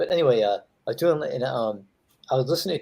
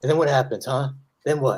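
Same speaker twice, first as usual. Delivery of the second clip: pressing, confrontational, pushy challenging delivery. Retelling a comedian's story about Al Pacino grabbing him: Al Pacino voice. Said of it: "He goes".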